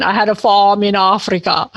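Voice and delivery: a light Danish lilt on "I had a farm in Africa"; quoting Meryl Streep's film line in a hint of Danish accent; Scandinavian accent. The speaker quoting Karen Blixen, lightly Danish-accented. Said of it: "Karen Blixen".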